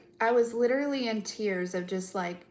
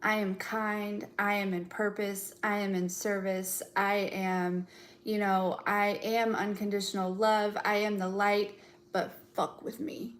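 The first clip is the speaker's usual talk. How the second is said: mantra voice. Pretend. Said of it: "power of, like".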